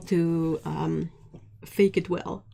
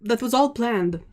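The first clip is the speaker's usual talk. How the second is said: higher, louder mock-confident sarcasm; sarcastic; 4 semitones higher, 4 dB louder than usual. Real, not acted. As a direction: insist it was planned, tongue in cheek. Covers up an accident.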